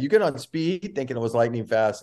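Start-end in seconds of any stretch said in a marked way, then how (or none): 0.0-0.9 retold question. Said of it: "I said something like that".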